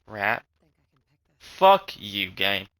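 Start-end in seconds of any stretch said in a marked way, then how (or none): 1.4-2.7 angry outburst. Real, not acted. Cursing at the game.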